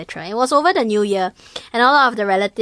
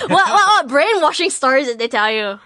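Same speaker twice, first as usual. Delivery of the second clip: mock sceptical; 5 semitones higher, 4 dB louder than usual. Mocking the listener's sceptical reaction.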